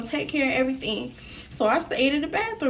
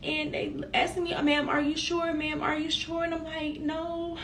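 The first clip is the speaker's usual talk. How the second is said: real tearful; 4 semitones higher than usual. Real, not acted. Survivor recalling being too scared to tell police, tearful. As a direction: fight back tears while retelling it. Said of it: "I'm finna get emotional".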